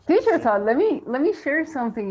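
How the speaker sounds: imitating Sandra. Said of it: "Sandra is like".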